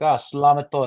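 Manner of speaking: lightly put-on Tagalog lilt; casual Tagalog way of speaking; Tagalog accent. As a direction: slip into a Filipino Tagalog accent. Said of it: "a way of, of speaking".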